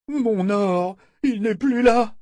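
high, loud, alarmed exclamation; panicked cry. Acted. A tall man in the crowd discovering his loss, high panicked cry. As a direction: blurt it out in sudden panic. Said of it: "s'écria".

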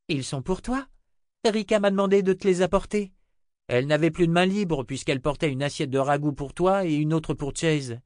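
put-on high-pitched little girl voice; little girl Rachel. Little girl urges the old wizard to eat, high child voice.

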